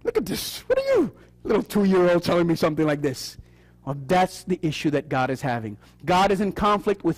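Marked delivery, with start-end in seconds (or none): 0.0-3.4 scolding mother. Retold or imitated. Mother scolding her sassy two-year-old, hushed. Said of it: "That's what my mother used to tell me".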